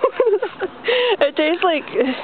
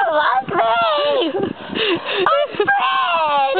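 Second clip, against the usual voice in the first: silly Fred voice; 8 semitones higher, much slower than usual. Pretend. Goofy character calls himself Fred.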